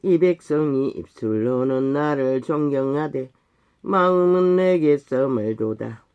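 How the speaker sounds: slow, solemn reading of a verse; scripture recitation. Acted. Preacher quoting God on a people's distant hearts, slow solemn recitation. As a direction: intone it in long, measured phrases.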